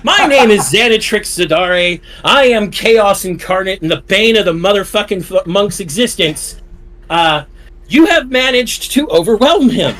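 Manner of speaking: grand villain introduction. Acted. Co-host grandly introduces himself.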